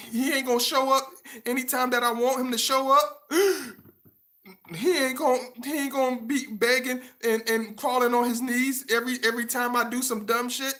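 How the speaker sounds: high, mocking girly voice; mocking woman. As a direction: lift it up high to poke fun at her.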